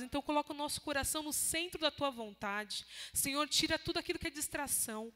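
prayer building from calm to loud fervor; fervent prayer. Acted. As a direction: pray aloud, rising into a loud plea.

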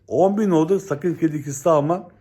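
calling out the index milestone to followers; shouting it out. Shown as a demonstration. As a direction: announce it like a town crier. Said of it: "bağıra bağıra her gün söyleyeceğim".

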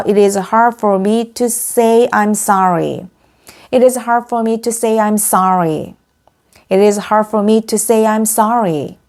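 slow, deliberate language-teacher reading; measured example-sentence delivery, drawn out; slow model sentence. Shown as a demonstration. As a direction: say it slowly for learners to repeat.

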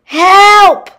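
loud, high-pitched panicked shriek; cry for help. A narrator's reading. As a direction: yell for help in a high female character voice. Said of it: "she cried as she started going up".

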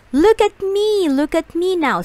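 high, loud showing off. A narrator's reading. Cat showing off to children, high and loud. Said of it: "said the cat".

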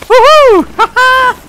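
high whooping laugh; triumphant laugh. Real, not acted. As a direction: whoop with glee. Triumph after finally riding.

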